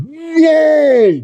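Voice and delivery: sudden high loud whoa of disbelief; shocked whoa. Retold or imitated. Shark hearing the prison wallet price, a loud high whoa. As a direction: blurt it out, caught off guard.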